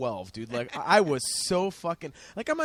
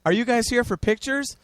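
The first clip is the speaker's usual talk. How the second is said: imitated musician question; 7 semitones higher, 4 dB louder than usual. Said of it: "and he goes".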